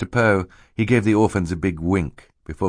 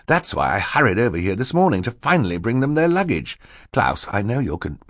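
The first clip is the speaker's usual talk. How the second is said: higher, earnest explaining; fussy banker; 5 semitones higher than usual. Acted. Mister Poe explains his morning errand, fussy. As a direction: explain yourself in character.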